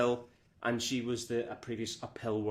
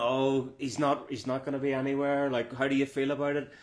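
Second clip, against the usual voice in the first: raised-pitch mock doubters, rattled off; mimicking taunts; 3 semitones higher than usual. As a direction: imitate people needling you, pitched up a little. Mimicking people giving stick.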